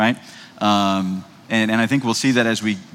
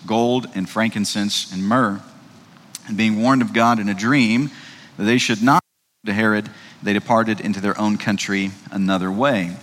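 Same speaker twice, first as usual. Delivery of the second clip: scripture reading. Acted. Reads Matthew 2 aloud.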